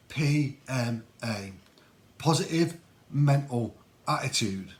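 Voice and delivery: slow, spaced-out London dad voice; southern London accent. Retold or imitated. Dad in advert spelling it out for his son, slow southern London accent. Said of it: "in a bit of a southern London accent like that".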